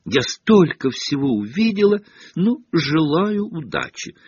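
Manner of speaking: high, gushing schoolgirl voice; high-pitched self-satisfied boasting; beaming with pride. A narrator's reading. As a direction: show off proudly, pitched high. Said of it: "сияя от гордости".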